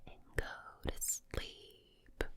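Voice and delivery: slow, drawn-out Southern US whisper; whispered Southern drawl. Shown as a demonstration. ASMR host lulling the listener to sleep, slow whispered Southern drawl. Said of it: "this sort of drawl".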